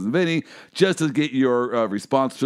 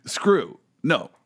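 mock disbelief; 5 semitones higher, much slower than usual. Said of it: "She said".

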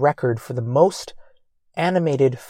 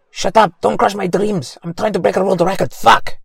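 higher-pitched, hammed-up outburst; mock indignant; 5 semitones higher than usual. Angel defending his record attempt to his friend, mock indignant. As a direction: protest like your dream is being trampled. Acted angry retort to friend.

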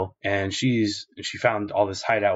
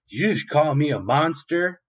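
higher mock-indignant question; offended Lady Alvida; 7 semitones higher, 3 dB louder than usual. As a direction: take offence with a raised pitch.

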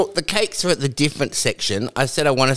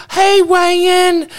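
loud, high cheery greeting across the street; friendly call-out; 6 dB louder than usual. Retold or imitated. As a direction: call his name out happily and loudly. Townsfolk greet him loudly.

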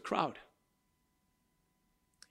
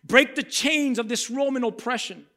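crowd screaming; 5 semitones higher, 3 dB louder than usual. Retold or imitated. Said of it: "And they're screaming".

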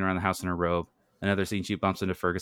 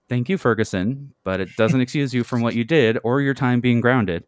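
lightly wry comeback, pitched up; louder, firm motherly quip; quipping; 4 semitones higher, 6 dB louder than usual. Acted. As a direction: thank him, then put him in his place. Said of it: "Janet quips".

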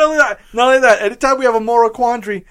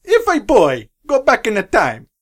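bad Italian accent. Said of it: "stereotypical bad Italian accent".

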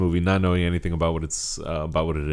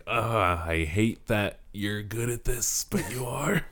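slow, grudging sarcasm pitched higher; sarcastic; 5 semitones higher, much slower than usual. Retold or imitated. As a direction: imitate a sarcastic, backhanded admission. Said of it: "like, a really sarcastic way".

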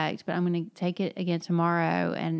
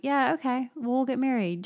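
casual mock agreement, pitched a little higher; matter-of-fact; 6 semitones higher than usual. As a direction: toss it off as a settled, ordinary thing. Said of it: "Just kinda matter-of-factly".

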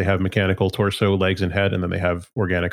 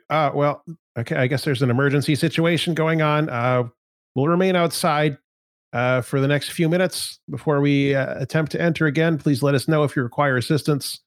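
polite guard voice; 6 semitones higher than usual. Acted. Guard answers through door.

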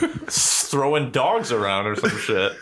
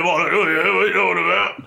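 higher-pitched hammed-up British accent; mock British lad, pitched up; mock British Gerald; 6 semitones higher, 4 dB louder than usual. Acts out British Gerald, higher, louder.

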